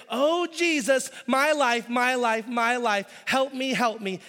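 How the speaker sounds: high, loud mock wail, slow at first; hammed-up churchgoer crying out about a ruined life; drawn-out plea. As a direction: drag out the begging like someone falling apart. Churchgoers begging Jesus for help.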